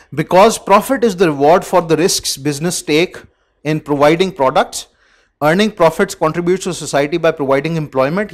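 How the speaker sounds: loud, deliberate textbook read-out; reading aloud. Acted. Teacher reads the business text to students, reading aloud. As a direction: read it out firmly to the class.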